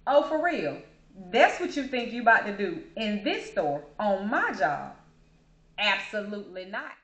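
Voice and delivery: mock incredulous challenge; lightly imitated stern disbelief; voiced warning look. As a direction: voice the cashier's silent stare. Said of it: "her eyes was like".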